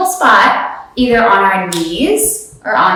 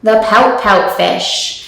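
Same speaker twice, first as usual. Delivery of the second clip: lively picture book reading; reading to children. Acted. Yoga teacher reading a picture book to kids, lively. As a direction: read it like storytime.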